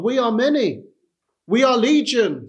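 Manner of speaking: lightly voiced devil urging you to stay; tempting Satan. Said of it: "Satan will say to you".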